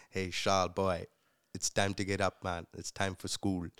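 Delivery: wake-up call with a hint of Trinidadian accent. Friend's dad waking him for school, Trinidadian accent. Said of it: "Trinidadian accent that I'll never".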